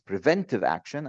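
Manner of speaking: "preventive" picked out with a pitch jump; stress on preventive. Real, not acted. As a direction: put emphasis on the word "preventive". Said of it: "I emphasize on the word preventive actions".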